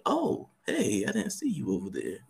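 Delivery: mock flirty greeting. A flirt pretending not to have seen someone, mock-coy. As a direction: act like you just noticed them, playing coy. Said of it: "be like".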